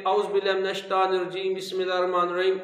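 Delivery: fast, careless run-through; hurried mock recitation; rushed recitation. Shown as a demonstration. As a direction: gabble it as people do in a hurry. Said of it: "ایسے نہیں کرنا".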